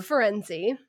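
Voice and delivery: "Ferenzi" ending in a clear ee; "Ferenzi" as fuh-REN-zee; pronunciation shown. Shown as a demonstration. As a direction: say "Ferenzi" with stress on the middle, ee at the end. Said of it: "Is that how it's pronounced?".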